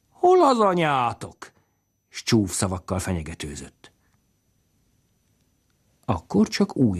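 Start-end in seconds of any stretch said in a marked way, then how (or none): 0.1-1.5 high, slow, louder bellow; angry roar. Acted. Drunk father bellowing for the mother, slow and loud. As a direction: roar it at the kids. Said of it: "hogy rivalkodjon".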